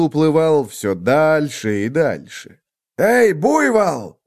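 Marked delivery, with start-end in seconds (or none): 3.0-4.2 loud, high, slow angry shout; angry call. A narrator's reading. Angry wolf calls the buffalo back, shouting. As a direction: yell at him across the water. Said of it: "рассердился, наконец, волк".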